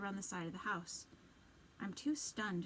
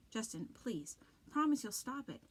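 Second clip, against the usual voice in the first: pleading; 2 semitones higher than usual. Acted. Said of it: "Z pleads".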